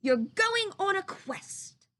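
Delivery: slow solemn owl; Owl announcing. Acted. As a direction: announce the quest like a wise old owl. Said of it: "said Owl".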